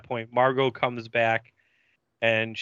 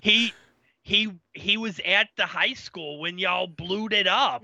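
Tammy voice; 6 semitones higher than usual. Retold or imitated. Tammy greeting Angel in a high put-on voice. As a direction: play the peppy slayer, pitched way up.

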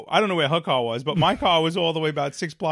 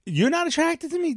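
sharply higher mock indignation; indignant; 4 semitones higher than usual. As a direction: rage at the memory. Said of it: "I was like".

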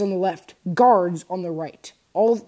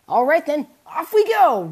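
higher and louder, cheering; joyful whoop; 8 semitones higher, 7 dB louder than usual. A narrator's reading. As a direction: whoop it out with joy. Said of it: "Ralsei whooped with joy".

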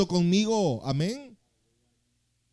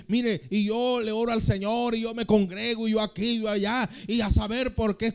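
higher, singsong mock lament; mock complainer; 5 semitones higher than usual. Preacher imitating believers who complain, mock lament. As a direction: imitate a churchgoer listing excuses. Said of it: "hay gente que viene y dice".

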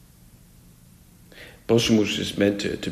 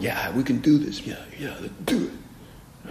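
self-confident; 5 semitones higher than usual. Acted. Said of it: "these guys were super self-confident".

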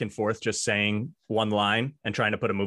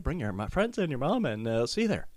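fast, softer trailer sign-off; movie trailer voice; 4 dB quieter, faster than usual. Acted. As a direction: rattle off the closing line. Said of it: "trying to put a movie trailer together".

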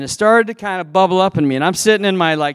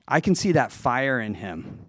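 cool Nadal way; 2 semitones lower, 6 dB quieter than usual. Retold or imitated. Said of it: "in a really cool, like, Rafael Nadal sort of way".

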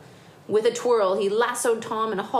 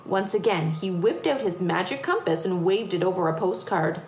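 lively picture-book reading; story narration. A narrator's reading. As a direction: tell it to children with building excitement. Reads picture book aloud.

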